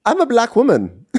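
high, loud voice through laughter; laughing mock Diane. Co-host retelling Diane, high and laughing. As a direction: squeal it out laughing. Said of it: "And Diane's like".

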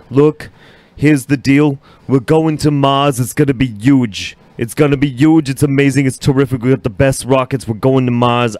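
lightly done Trump voice, hint of bravado; Trump impression. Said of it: "If Trump came out tomorrow and he's like".

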